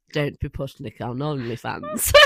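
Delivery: talking through a laugh; giggling while joking. Real, not acted.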